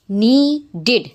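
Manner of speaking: needed in two clear beats, "nee-did". Shown as a demonstration. Teacher showing past-tense ED sounds, needed said "nee-did". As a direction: end needed on a full "id". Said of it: "Examples of I D".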